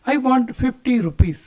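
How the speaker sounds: very slow, every word laid out clearly; slow model sentence. Shown as a demonstration. Teacher modelling the English for Kannada students, slowly. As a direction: spell it out slowly for learners. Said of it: "ಬೇಕು ಅಂತ ಕೇಳೋದಕ್ಕೆ".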